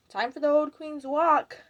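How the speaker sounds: imitating a pageant announcer; PA announcer call. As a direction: call it out slowly as if over a PA. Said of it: "they call over the P A".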